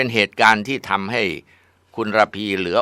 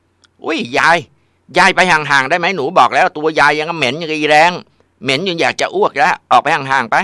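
high, loud, contemptuous yelling; disgusted shout at grandma; 9 semitones higher, 7 dB louder than usual. Acted. Spoiled granddaughter yells at grandma to get away, disgusted shout. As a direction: spit the words at her like a brat.

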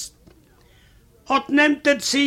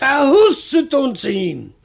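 ordinary talk, nothing marked

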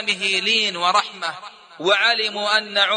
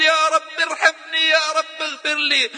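بكاء مقلَّد بصوت أعلى; 4 semitones higher than usual. Retold or imitated. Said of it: "ثم انفجر باكيا".

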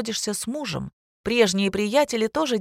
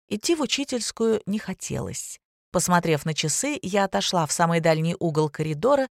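ordinary delivery, nothing marked

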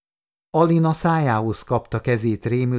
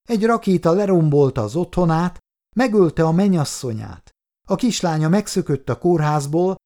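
pleading defense; 4 semitones higher than usual. Acted. Nurse defends Andrei.

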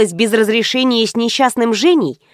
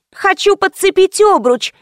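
puffing; 8 semitones higher than usual. A narrator's reading. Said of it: "пропыхтела Кристи".

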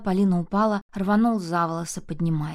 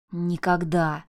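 growl; much slower than usual. Acted. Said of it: "рычал он".

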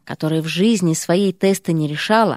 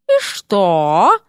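louder biting retort; venomous; 3 dB louder than usual. A narrator's reading. Серпентина cuts off the dean, venomous. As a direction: lash back with pure venom. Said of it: "звучало так язвительно".

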